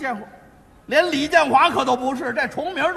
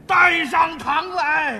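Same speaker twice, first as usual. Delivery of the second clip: slow, higher official call; courtroom summons; 4 semitones higher, 4 dB louder, much slower than usual. Acted. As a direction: call the prisoner into court, drawn out. Judge summons the next suspect.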